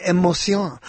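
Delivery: emotion said "ay-mo-SYON"; French-style emotion, landing on "syon"; French pronunciation of emotion. Retold or imitated. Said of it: "I was speaking French".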